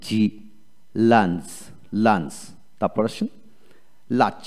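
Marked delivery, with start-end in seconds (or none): 1.1-2.3 লাঞ্চ with short A where U is written; A sound for U. Shown as a demonstration. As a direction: model লাঞ্চ slowly apart, with an A vowel. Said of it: "এখানে উচ্চারণ হবে এল এ". (লাঞ্চ, ইউ-এর বদলে এ ধ্বনি)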